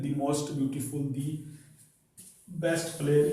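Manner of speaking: the said as thee, slow and spelled out. Shown as a demonstration. Teacher slowly models the as thee for students. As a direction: drawl the slowly as thee before most. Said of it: "दी लगा करके बोलते हैं".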